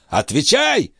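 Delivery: put-on high, strained old man's voice; old master's voice. A narrator's reading. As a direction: play the frail, urgent old alchemist. Althotas demands.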